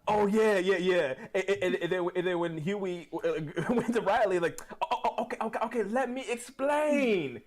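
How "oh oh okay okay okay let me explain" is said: high shouted scolding, slowing down; scolding mom. Retold or imitated. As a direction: yell at the kid like an angry mom. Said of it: "something my mom would say".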